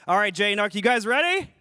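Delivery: loud hype call; rally the crowd, loud. Real, not acted. Hyping up the crowd.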